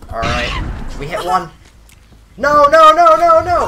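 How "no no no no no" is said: loud dismayed no. Real, not acted. Survivor escapes, killer reacts.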